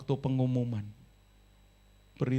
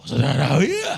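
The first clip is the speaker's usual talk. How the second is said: calling out to congregation; 9 dB louder than usual. Real, not acted. Preacher calls to the congregation.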